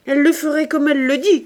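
high, loud warning cry. A narrator's reading. Maid warning master about his daughter, crying out. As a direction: call it out emphatically, pitch up. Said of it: "cria Nanon".

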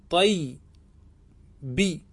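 teacher drawing out طيبي so students catch every sound; drawn out slowly. Shown as a demonstration. Teacher to students, showing the form slowly. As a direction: stretch طيبي very slowly, each sound held long. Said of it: "فستقول في النسبة إلى طيب".

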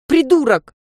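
put-on girl yelling at her friend who scared her on the roof. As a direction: yell it at him as you wobble on the roof. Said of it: "заорала я".

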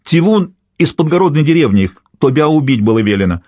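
high-pitched pleading peasant; wailing confession. A narrator's reading. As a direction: blurt out a confession to save yourself. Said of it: "возопил мужик". (испуганное признание мужика)

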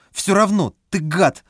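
put-on high shouting child; angry child. A narrator's reading. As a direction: shout it again stubbornly. Boy insists.

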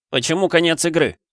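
angry yell. A narrator's reading. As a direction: demand it from the screen, outraged. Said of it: "Заорав".

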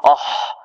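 أح breathed out as a wrong sound; mock-wrong أح; wrong pronunciation demo. Shown as a demonstration. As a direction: show the error أح, whispered. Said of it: "هذا خطأ".

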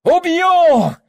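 very high yell; murderous scream. A narrator's reading. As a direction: scream the threat. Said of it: "рванулся с криком".

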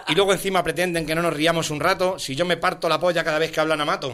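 rhythmic recital of satirical verse; poem recitation. Acted. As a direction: recite rhymed verse line by line.

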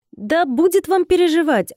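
high-pitched, breezy brush-off; dismissive. A narrator's reading. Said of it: "отмахнулась я". (отмахиваясь, высоким голосом)

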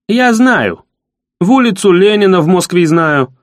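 proud boast. Acted. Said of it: "гордо подбоченясь".

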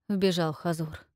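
usual speaking voice

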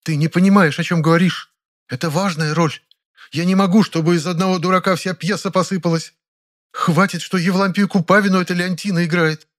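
put-on high, fierce interrupting older actress; furious Ranevskaya. A narrator's reading. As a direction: cut him off in a fury. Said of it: "яростно перебила меня". (яростный высокий голос Раневской)

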